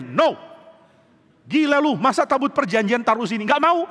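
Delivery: high, rising panicked no; frightened refusal. Retold or imitated. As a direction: back away in fear, refusing. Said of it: "semua orang takut".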